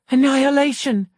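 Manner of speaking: high shrieked word; the dying psychologist shrieks at the biologist. A narrator's reading. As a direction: shriek it out in panic. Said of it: "she shrieked at me".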